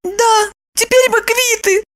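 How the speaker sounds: high squeaky apologetic voice; guilty squeak. A narrator's reading. Lipochka squeaking guiltily at Roman. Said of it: "виновато пропищала Липочка".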